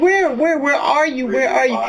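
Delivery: retold panic. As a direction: plead to know where he is. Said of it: "I was like".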